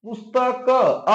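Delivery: पुस्तक read slowly, final अ drawn out; sounded-out word ending. Shown as a demonstration. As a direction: stretch पुस्तक slowly to expose its closing अ. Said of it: "यहां पर पुस्तक पढ़ो".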